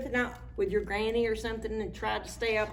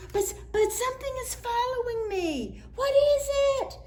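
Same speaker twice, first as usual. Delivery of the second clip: high, panicky question; scared voice; 3 dB louder than usual. Acted. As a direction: stammer it out in fright. Frightened character in story.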